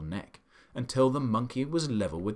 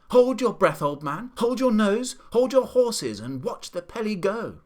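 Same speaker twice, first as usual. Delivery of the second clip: much higher, louder cheeky calls; gleeful shouting; 10 semitones higher, 7 dB louder than usual. A narrator's reading. The monkey cheering on the pelican, shouting loud and high. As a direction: crow it out like a showman.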